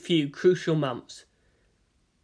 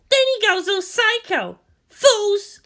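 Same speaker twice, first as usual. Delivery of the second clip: put-on much higher, scornful girl's voice; scornful Asuka; 5 dB louder, slower than usual. A narrator's reading. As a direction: sneer it like a bratty teen girl. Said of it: "Asuka's inner rant".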